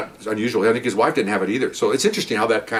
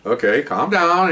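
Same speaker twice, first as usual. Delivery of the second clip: slow, drawn-out calm down; slow and deliberate soothing; 7 semitones higher, 3 dB louder, much slower than usual. Retold or imitated. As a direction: settle an angry caller slowly. Captain calming an angry caller.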